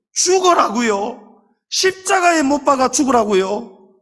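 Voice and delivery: Jesus complaining. Acted. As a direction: voice a son's mounting complaint to his father. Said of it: "원망하고 불평할 일 많으셨겠습니까".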